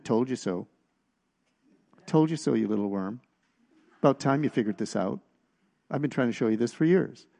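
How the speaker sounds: a light imitation of a smug, scolding God; mock the sneering told-you-so voice without pushing it; condemning voice. Imitating the condemning voice God never uses on you. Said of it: "never with a voice of condemnation".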